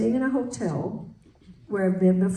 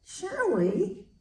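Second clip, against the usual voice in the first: high, slow, laughing disbelief; 11 semitones higher, much slower than usual. Retold or imitated. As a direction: tell her through laughter. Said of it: "And I said".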